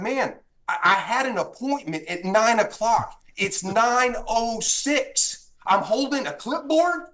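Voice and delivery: rising pitch, building indignation; retold exasperation. Appraiser protesting to the gunman, getting madder. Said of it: "And I'm getting madder".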